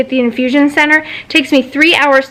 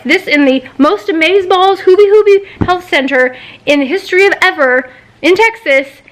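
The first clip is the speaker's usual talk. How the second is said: higher-pitched mocking grandeur; sarcastic hype; 5 semitones higher than usual. Patient scornfully quoting the clinic's reputation, sarcastic. Sarcastically hyping the health center.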